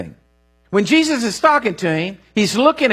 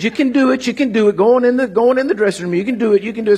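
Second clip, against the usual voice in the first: wife's coaxing; 4 semitones higher, faster than usual. Retold or imitated. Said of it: "And she said".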